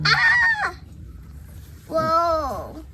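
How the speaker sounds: startled loud cry; surprised shout. Real, not acted. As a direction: yelp in real surprise. Oil suddenly gushing out.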